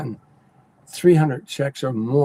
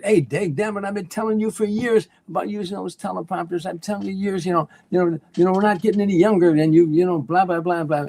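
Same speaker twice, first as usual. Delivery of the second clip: a higher-pitched imitation of Frank teasing his old friend; Frank's voice; 5 semitones higher than usual. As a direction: lightly voice Frank ribbing Dean, pitched up. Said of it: "and Frank said, you know, he said".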